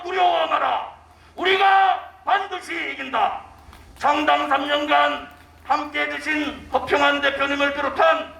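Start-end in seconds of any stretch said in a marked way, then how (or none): 0.0-3.4 roaring rallying speech. Real, not acted. Climactic rally cry.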